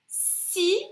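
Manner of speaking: teacher prompting the first syllable; syllable sounded out. Shown as a demonstration. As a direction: isolate the sound si for the child. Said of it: "ça commence par".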